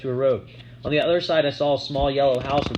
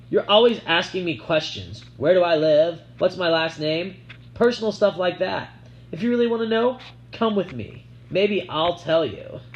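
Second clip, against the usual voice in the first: put-on teasing girl voice; 6 semitones higher, 4 dB louder than usual. A narrator's reading. Sissy teasing, voiced high.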